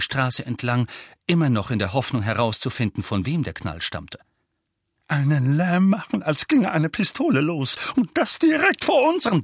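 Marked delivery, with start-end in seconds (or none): 5.1-9.4 high, rising indignant scolding; worked-up accusation, climbing in pitch; angry uncle. A narrator's reading. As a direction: scold the boy in outrage. Enraged uncle scolds nephew.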